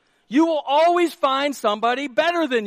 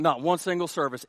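ordinary delivery

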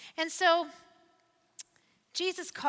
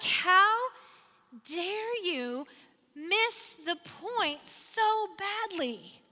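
indignant; 4 semitones higher, much slower than usual. Acted. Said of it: "Can you hear the angst and perhaps even the anger".

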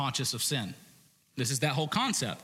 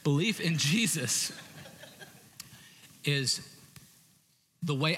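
spoken with a laugh; 3 semitones higher than usual. Real, not acted. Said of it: "I don't know why I sang that".

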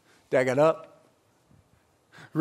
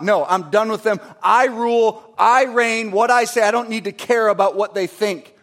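domineering father; 4 semitones higher, 4 dB louder than usual. Retold or imitated. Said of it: "He could do whatever he want".

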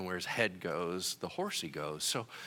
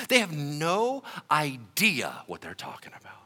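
whisper; 4 semitones higher, 3 dB louder than usual. Real, not acted.

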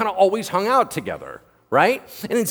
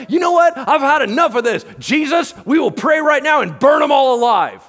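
livid disciples; 7 semitones higher, 5 dB louder than usual. Retold or imitated. Disciples furious at the Samaritans, shouting. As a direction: rage at the Samaritans, louder and higher. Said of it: "they got livid".

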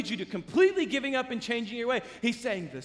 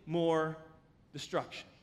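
hushed emphasis; 5 semitones lower, 6 dB quieter than usual. Real, not acted. Heavy pause, sermon emphasis.

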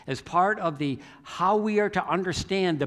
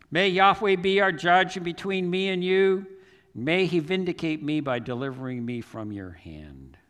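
raised plea falling to usual voice; shouted appeal easing off; 3 semitones higher, 4 dB louder than usual. Retold or imitated. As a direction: call out, then let it settle. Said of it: "he started shouting to".

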